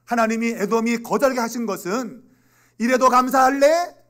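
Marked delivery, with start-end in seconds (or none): 2.8-4.1 high, slow, booming question; loud challenge. Acted. God testing whether people will still give thanks, loud challenge. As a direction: draw it out as a forceful test.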